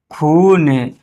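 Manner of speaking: long drawn-out "खून". Shown as a demonstration. Teacher showing the long ū matra, "खून" held long. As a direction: hold the ū in "खून". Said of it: "थोड़ा सा देर तक बोल लें".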